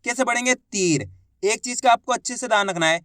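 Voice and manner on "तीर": "तीर" with the ई held long; long drawn-out ī. Shown as a demonstration. Teacher answering how to read it, "तीर" drawn out. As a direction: stretch the vowel in "तीर". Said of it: "बड़ी ई की मात्रा को खींच के पढ़ा जाता है".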